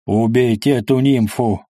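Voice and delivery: restrained yell in a changed voice. A narrator's reading. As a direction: yell the order without much extra volume. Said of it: "заорал". (сдержанный крик)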